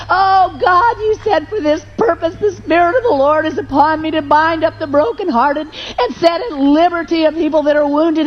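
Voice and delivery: tearful, rising prayer that breaks into a cry; impassioned crying plea to God; weeping prayer. Retold or imitated. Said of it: "I burst into profuse weeping".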